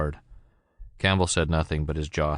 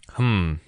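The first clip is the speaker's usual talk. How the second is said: muttered hmm; 4 semitones higher, 4 dB louder than usual. A narrator's reading. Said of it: "muttered Harrigan".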